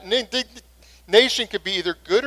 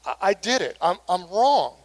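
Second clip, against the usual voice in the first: sincere apology. Shown as a demonstration. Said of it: "It's to say things like".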